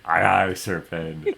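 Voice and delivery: loud imitation of a pirate; mock pirate "Aye, aye". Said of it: "speaking like a pirate".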